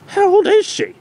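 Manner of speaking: eager. Acted. The Doctor eagerly asking about his daughter. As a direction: blurt it out.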